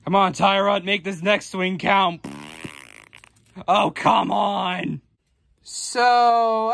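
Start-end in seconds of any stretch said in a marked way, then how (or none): 3.7-5.0 frustrated groan. Acted. Missed shot, frustrated.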